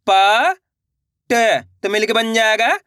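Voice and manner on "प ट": each letter sounded alone, "प" held, "ट" short. Shown as a demonstration. Teacher sounding out letters for beginners, letter by letter. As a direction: spell it out with pauses between "प" and "ट". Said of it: "एक अक्षर का उच्चारण करके".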